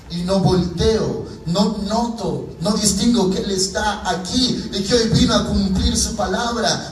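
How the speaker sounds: preaching in rising pitch; impassioned preaching. Acted. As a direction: press each phrase home like a preacher. Preaches at full force.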